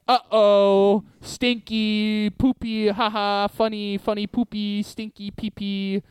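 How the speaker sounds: high, giddy sing-song silly voice; joyful goofy voice. Retold or imitated. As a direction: chant the silly words gleefully. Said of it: "someone going like".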